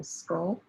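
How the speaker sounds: "sculptures" softly broken into two syllables. Shown as a demonstration. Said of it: "I'm typing the syllable".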